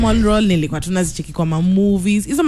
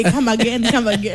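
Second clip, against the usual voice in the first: fake American accent. Shown as a demonstration. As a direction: put on a faked American accent. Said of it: "you have to fake an accent".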